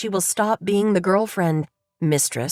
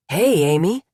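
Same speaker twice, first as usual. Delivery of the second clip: lightly voiced man, a bit louder; a hint of Dennis, casually greeting; Dennis's voice; 4 dB louder than usual. A narrator's reading. Dennis recognizes Amy at the bar, casual man's greeting.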